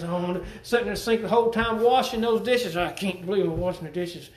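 whiny complaining about the dishes; mock grumbling. Preacher showing the congregation how grumbling sounds, mock whine. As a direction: grumble it like a put-upon husband. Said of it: "This would be grumbling".

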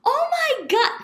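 high, loud stunned Oh my God; overwhelmed gasp. Retold or imitated. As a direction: boyfriend kneeling, stunned and high. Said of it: "I'm like".

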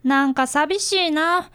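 very slow, drawn-out sigh of loss; dejected. Acted. Boy hears his friend may stop visiting, dejected and slow. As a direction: let the disappointment sink in.

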